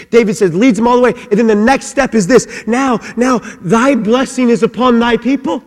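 loud, high, impassioned preaching; preaching at full force. Acted. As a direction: thunder it out to the congregation.

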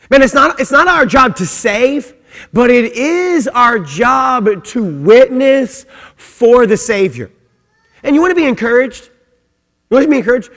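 loud, high, driving preacher's call; full-force preaching. Real, not acted. Preacher rallying the congregation, loud and high. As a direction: preach it out with fire.

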